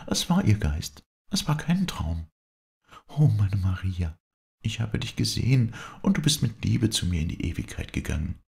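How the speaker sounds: high-pitched, impassioned cry; fervent exclamation. A narrator's reading. Viola addresses her dead Maria, exclaiming fervently. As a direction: exclaim it high, with rapt conviction. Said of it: "rief Viola".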